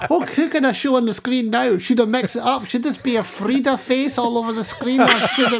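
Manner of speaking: laughing through a recalled thought. Retold or imitated. To the host, laughing about pushing buttons. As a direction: giggle through the words.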